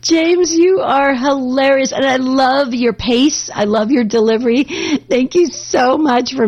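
laughing while talking. Real, not acted. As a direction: still laughing as you praise him. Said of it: "I'm almost choking. That's how hard I'm laughing".

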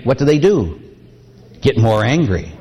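ordinary talk, nothing marked

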